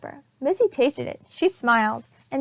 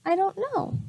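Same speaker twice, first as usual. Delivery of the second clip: shy; 7 semitones higher than usual. Acted. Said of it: "said shyly".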